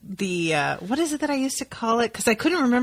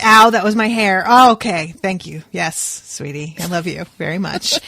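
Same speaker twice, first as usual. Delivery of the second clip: mock wincing wife; 3 semitones lower, 4 dB louder than usual. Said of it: "you're like".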